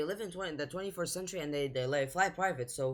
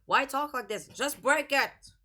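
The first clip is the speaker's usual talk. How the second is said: exasperated; 8 semitones higher, 3 dB louder than usual. Real, not acted. Urges film character to just break it, exasperated. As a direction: stretch each word, high and insistent.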